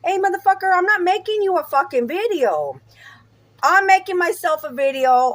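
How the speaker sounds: snapping back at Andy about drinking; real anger. Real, not acted. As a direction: bite back at him hard. Angry reply to Andy's nagging.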